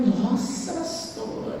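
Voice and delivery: soft, low, fading into voiceless; coy charm. Retold or imitated. Recovered singer playing up to pastor, coy charm. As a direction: put on a softened, coy little reply.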